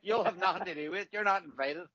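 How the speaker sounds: light laughing jab at a friend; laughing tease. Real, not acted. To a friend, mock excluding him with a laugh. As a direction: tease him through a chuckle. Teasing banter, laugh heard.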